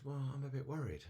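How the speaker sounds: high little-snake voice, a touch anxious; worried little snake. Acted. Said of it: "worried, frightened, anxious".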